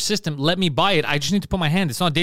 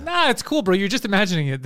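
mock dismissive official; 5 semitones higher than usual. Mocking officials brushing off cancer.

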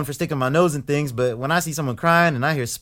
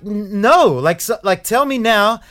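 higher and louder, demanding answers; angry demand; 4 semitones higher, 4 dB louder than usual. Retold or imitated. Housemate demanding answers from the others, angry. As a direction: push them to tell you now. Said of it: "I just lose my stuff".

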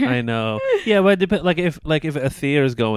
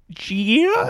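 high unsure question. Retold or imitated. Mocking mispronounced name on stage.

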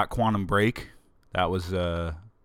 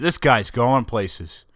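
slow, louder proud boast; boastful; 3 semitones higher, 5 dB louder, slower than usual. Pretend. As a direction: hype yourself up like a fan. Mock praise of himself.

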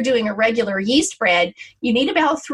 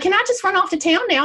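imitating sister-in-law; 9 semitones higher, faster than usual. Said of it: "she was like".

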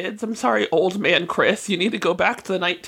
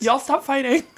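dad impression cracking up laughing; laughing through the line; 6 semitones higher than usual. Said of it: "the impression of your dad".

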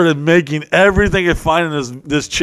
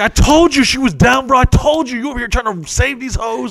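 much higher, louder bragging; gloating; 11 semitones higher, 3 dB louder than usual. Retold or imitated. Gloating to Nate that she was down, high and loud. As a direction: rub it in.

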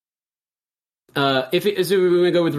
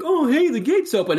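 donkey; 9 semitones higher than usual. Acted. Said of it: "the donkey walks up and is like".

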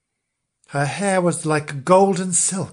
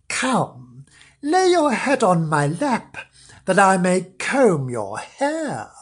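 sugary, higher put-on sweetness; falsely sweet stepmother; 3 semitones higher, slower than usual. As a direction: coax her like a fake-kind stepmother. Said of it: "she pretended not to mind".

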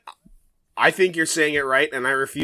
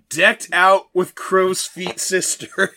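laughing mockery; 5 semitones higher, 6 dB louder, much slower than usual. Mocking the old fairy sister.

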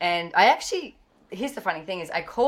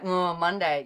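mildly imitated dreary Monday; mock glum; slower than usual. Friend imitating most people, mildly glum about Monday. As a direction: sigh out Monday like it's a chore. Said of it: "Most people are like".

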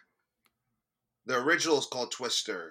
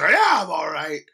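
a louder, hammed-up yawning cartoon bear; 7 dB louder than usual. Cohost mocking how his friend's yawn sounded, loud cartoon bear impression. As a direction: growl it out like a sleepy cartoon bear. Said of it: "You said it like a cartoon bear".

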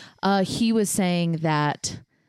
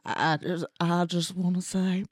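Bill Clinton; 3 semitones lower than usual. Pretend. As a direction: have a go at a Southern politician. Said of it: "I think Bill Clinton's still in the house".

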